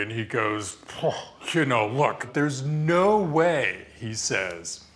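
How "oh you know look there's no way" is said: mildly indignant retold objection, stretched out; visibly angry executive. Interviewee retells an executive objecting at the meeting, mildly angry. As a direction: act out an executive's mild anger, slowing on the refusal. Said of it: "he's kind of visibly angry".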